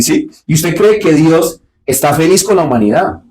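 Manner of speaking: usual speaking voice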